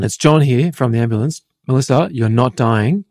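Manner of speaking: lightly voiced firm paramedic; strong paramedic voice. Paramedic reassuring the collapsing woman, lightly firm. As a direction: insist she's not dying, steady and strong. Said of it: "very strong voice".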